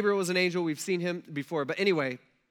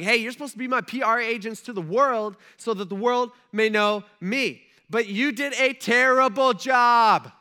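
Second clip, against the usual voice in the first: scolding God; 4 semitones higher, 8 dB louder than usual. Retold or imitated. God voiced scolding his people.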